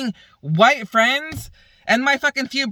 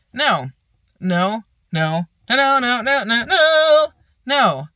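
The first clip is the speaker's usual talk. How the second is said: emphatic no; slower than usual. Real, not acted. Ranting to viewers about the self-defense claim, rising furious no's. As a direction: hammer each no harder.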